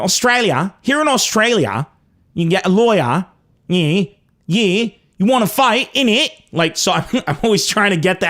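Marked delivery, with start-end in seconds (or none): 0.0-6.3 a lightly put-on Australian accent drifting toward British; playful Aussie accent that veers British; Australian accent attempt. Shown as a demonstration. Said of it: "you go".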